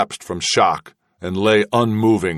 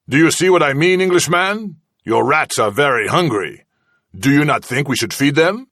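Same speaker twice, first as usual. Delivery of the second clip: menacing interrogator; 7 semitones higher than usual. Acted. Villain pushing the prisoner to talk, gloating menace. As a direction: press him, enjoying his fear. Kazala pressing the Englishman.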